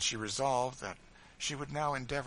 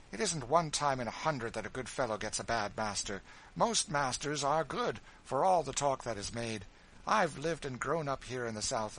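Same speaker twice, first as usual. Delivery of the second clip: higher, fussy lady's voice; a self-absorbed widow airing her plans; spoiled lady complaining of her arrangements; fretful mistress; 5 semitones higher, 4 dB louder than usual. Acted. Marie dismissing Ophelia.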